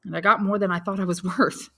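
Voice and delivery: a son laughing it off; forced little laugh. Acted. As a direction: make light of the bad news with a laugh. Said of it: "trying to smile".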